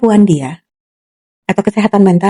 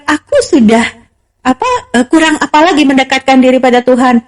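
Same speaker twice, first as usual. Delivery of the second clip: mild mock cry of protest, pitched higher; retold cry; 4 semitones higher than usual. Someone devout insisting they have prayed enough, mildly imitated outcry. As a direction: protest in a higher voice, without really shouting. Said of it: "orang itu udah teriak".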